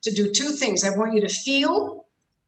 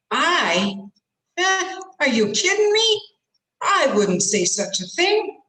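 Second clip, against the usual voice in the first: hammed-up affronted protest, jumping high and loud; acted outraged disbelief, "I" stressed; indignant denial; 6 semitones higher, 4 dB louder than usual. Shown as a demonstration. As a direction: protest your innocence in bursts with pauses.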